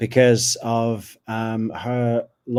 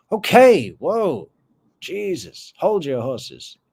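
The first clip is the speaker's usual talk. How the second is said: loud, high okay, then settling down; mock taken aback; 5 semitones higher, 4 dB louder than usual. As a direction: act overwhelmed and rein in a fast talker. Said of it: "all sleepy Tallahassee people are just like".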